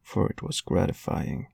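plain reading voice

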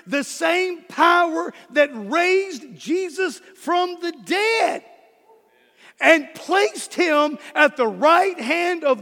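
slow, rising to a shout on dead; slow build to a preached shout; preaching climax. Real, not acted.

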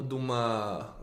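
ordinary delivery

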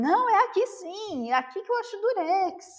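high, insistent stubbornness; stubborn tourist insisting to shopkeepers; stubborn insistence. Retold or imitated. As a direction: dig in and refuse to budge. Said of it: "Teimando com eles".

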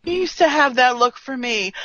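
lightly imitated wistful complaint; mock self-pity. Podcaster imitating how Riker plays it, mock-wistful. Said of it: "they definitely play this as like".

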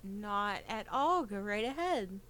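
intimidated hushed politeness; nervous reply. Real, not acted. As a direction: swallow your fear and be polite. Nervous player answering arms dealer.

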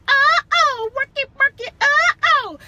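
high, loud party whoop of "Uh-oh, work it"; mock party call. Teasing Rhonda about her single days, a loud high party whoop. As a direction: hype it up like a girl on the dance floor. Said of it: "you was out here like".

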